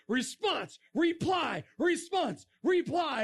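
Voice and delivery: high, punched words, each one falling; mock rapid exchange; volleying back and forth. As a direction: toss each word out like a quick volley. Mimics volleys of comments.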